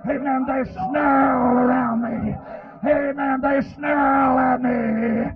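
slow, stretched-out preacher's wail; crying sermon chant; anguished preaching. Real, not acted. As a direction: drag out the last word of each phrase. Preacher wails about snarling attackers.

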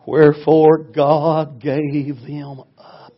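slow, weighty recital; very slow solemn reading; solemn scripture. Real, not acted. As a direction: intone it like scripture.

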